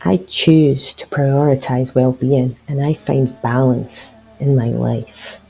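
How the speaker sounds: slow, resolute affirmation; slow mantra with mild determination; with conviction. Shown as a demonstration. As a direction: state the choice firmly and unhurriedly. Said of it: "but with conviction".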